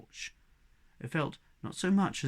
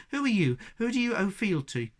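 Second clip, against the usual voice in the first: louder, higher, defiant challenge; truculent; 6 semitones higher, 4 dB louder than usual. A narrator's reading. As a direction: square up to a stranger twice your size. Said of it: "said Anastasia truculently".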